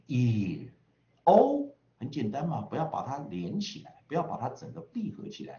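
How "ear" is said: "ear" drawn out slowly into a curled R; American R-coloured vowel. Shown as a demonstration. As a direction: model "ear" with the R clearly sounded. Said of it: "就念ear". (美式 "ear"，慢读卷舌)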